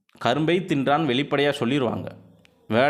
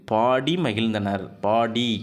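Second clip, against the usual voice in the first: slow example read; 2 semitones lower, much slower than usual. Shown as a demonstration. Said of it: "ஈ உச்சரிப்பு வருதா?".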